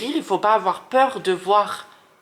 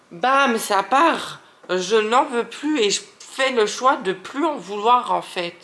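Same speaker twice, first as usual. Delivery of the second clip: getting worked up; 3 semitones higher than usual. Real, not acted. Tarot reader urging Aquarius to let go, worked up. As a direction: get carried away laying down the decision. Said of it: "Je m'énerve, pardon, je m'énerve".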